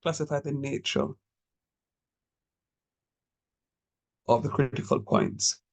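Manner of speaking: spaced out, each phrase left hanging; slow dictation. Shown as a demonstration. Teacher dictating the task to the class, slow and spaced. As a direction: dictate it slowly for notes. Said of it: "the question can come simply as that".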